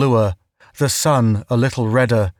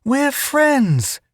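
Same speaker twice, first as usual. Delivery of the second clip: yelled; 13 semitones higher than usual. A narrator's reading. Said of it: "Judy yelled".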